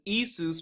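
"Isus" with a long ee, then soos; pronounced EE-soos. Shown as a demonstration. Teacher showing listeners another way to pronounce it, "Isus" said EE-soos. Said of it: "you can also pronounce this as".

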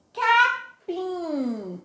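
Capim with the final vowel pushed through the nose; nasal demo. Shown as a demonstration. Teacher models Capim for pupils, nasal ending. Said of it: "Pronuncie aí".

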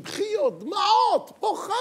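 hammed-up crying woman; mock weepy wife. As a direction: squeal it like a teary wife. Mocking emotional weeping wife.

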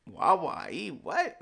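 mock bewilderment, shooting high on "What"; baffled. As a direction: echo it back as if you have no idea. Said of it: "she had no idea".

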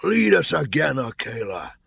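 high, loud howled plea; howling wolf. A narrator's reading. A tattered wolf begging Akela and Mowgli, high howling cry. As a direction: howl it like a ragged old wolf. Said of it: "one tattered wolf howled".

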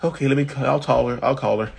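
acting flying monkey. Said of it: "you're acting and cracking me up".

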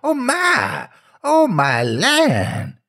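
quavering high cry of fear; shivering fright. A narrator's reading. Man hearing the ghost in the snow, quavering in fright. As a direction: shake with terror on it. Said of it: "began to shiver and shake".

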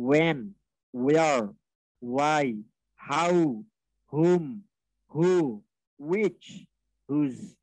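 each word said singly, "when" to "whose", long pauses between; "when, where, why, which" with w, "how, whom, who, whose" with h; model pronunciation. Shown as a demonstration. Teacher drilling question words, each pronounced separately and carefully. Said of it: "উচ্চারণে ভুল করা যাবে না".

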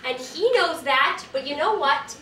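exasperated. Acted. Irritated friend spells out her objection.

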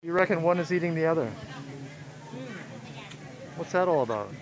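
muffled behind a mask; talking through a face mask. Real, not acted. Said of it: "Sorry if I sound muffled, I've got a mask on".

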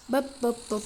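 short percussive baps; imitated vehicle noise. Gamer playing with the car, imitated vehicle noise. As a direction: pop out rhythmic mouth noises.

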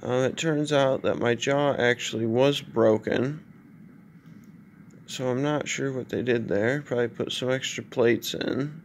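drowsy, slurred post-anesthesia speech; groggy after surgery. Real, not acted. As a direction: talk through a stiff, broken jaw. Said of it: "I just woke up from surgery".

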